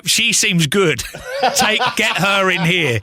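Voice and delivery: giggling through the recommendation; laughing retold quote. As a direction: laugh while telling the boss to hire her. Retelling the same line again.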